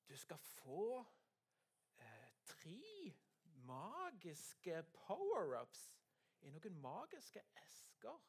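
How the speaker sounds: slow, drawn-out reading with big pauses; reading a note. Acted. Storyteller reads the magic note to the children, slow and drawn out. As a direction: read it out slowly, word by word.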